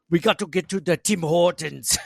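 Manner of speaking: lumbering Austrian action-hero voice; Schwarzenegger impression. Mocking a visitor in Buffalo in a bad Arnold accent. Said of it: "Arnold Schwarzenegger now".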